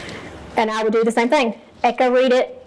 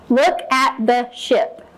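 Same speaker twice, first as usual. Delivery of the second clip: slow modeled reading; much slower than usual. Shown as a demonstration. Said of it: "I could read the first line".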